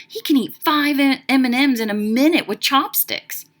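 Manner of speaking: lifted, emphatic boast; bragging. Acted. Flea boasts about Alvin to her friends, bragging. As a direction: show off your friend's amazing feat. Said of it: "she bragged".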